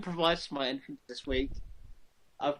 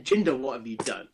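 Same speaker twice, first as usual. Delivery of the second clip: attempted Indian accent; 3 semitones lower than usual. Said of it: "That's not even an Indian accent".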